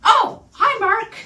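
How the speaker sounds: put-on Tommy Wiseau accent, bright and loud; imitating Tommy Wiseau. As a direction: burst out with a hammed-up Tommy Wiseau hello. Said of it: "not quite like that".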